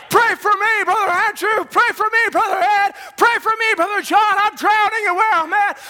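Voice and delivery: half-acted cry for rescue; pleading believer. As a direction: call out for help like someone drowning. Voiced drowning believer crying out.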